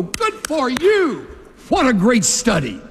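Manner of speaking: mock polite approval. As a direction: sweetly pretend to be impressed. Imagined polite group reply.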